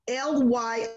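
slow, letter-by-letter spelling; spelling a word for children; spelled out letter by letter. Shown as a demonstration. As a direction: spell each letter out slowly for the kids. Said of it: "And the word lying".

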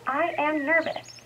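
slow model line for the class; naming feelings. Shown as a demonstration. Teacher modelling for students how to name a feeling, slow. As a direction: show the kids how to say it slowly. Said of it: "and say".

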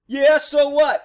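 loud, high-pitched retort; defiant retold comeback. Suspect answering the cop, loudly defiant. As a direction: throw it back defiantly.

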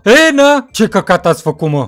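a loud "E, na?" right in his ear; loud outburst. Acted. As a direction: burst out loud at him. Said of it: "te-ai stricat de țipi în urechea mea". (strigăt puternic)

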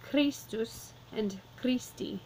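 Christus stressed on Chris, said slowly; slow stress demo. Shown as a demonstration. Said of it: "the accent on the first of the two".

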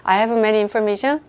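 "I have many information" read slowly again, ending on a rise; slow reread with a rising end. Shown as a demonstration. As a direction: repeat the quiz sentence slowly as if it sounds fine. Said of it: "저 읽어드리면 또 다 괜찮게 들리죠?".

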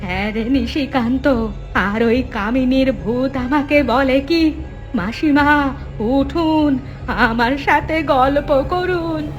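fearful lament. Acted. Mother telling her son what the ghost said, frightened wail. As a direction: recount it in wailing fright.

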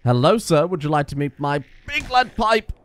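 falsely courteous greeting before a beating; hammed-up polite villain; mock polite menace. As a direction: sweet-talk the zombie, then threaten. Threatening zombie with pipe, mock polite.

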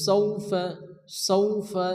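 "সৌফা" with a soft gliding "সৌ"; teacher's soft "সৌফা"; soft quick diphthong. Shown as a demonstration. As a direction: glide gently through "সৌফা", no stretching. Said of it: "নরম আওয়াজে তাড়াতাড়ি পড়তে হবে".

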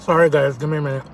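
talking while chewing; words round a bite; mouth full. Real, not acted. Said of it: "one-on-one time with my food".

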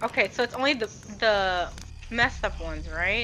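whispering while hiding. Real, not acted. Hiding from the monster.

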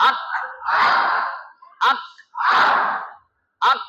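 আক cut short on a hard k; k ending. Shown as a demonstration. Teacher spells it out for class, hard-stopped আক. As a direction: stop dead on the k of আক. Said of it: "স্বরে আ ক কি হয়?".

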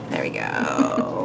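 mock deep voice. Shown as a demonstration. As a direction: drop way down and drag "There we go." out. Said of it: "Okay, there we go".

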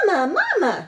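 high, loud little hatchling cry; a tiny unborn gosling calling out; egg calling Mama. A narrator's reading. An unhatched gosling calling to the robot, high and loud. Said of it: "said the egg".

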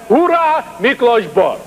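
holler. Shown as a demonstration. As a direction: yell it out like a kids' cheer. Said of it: "everybody holler".

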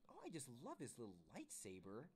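swooping, girlish mock squeal; gushing squeal. Sarah admires the little lightsaber, squealing with swooping pitch. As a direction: gush with big swoops up in pitch. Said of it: "Sarah squealed".

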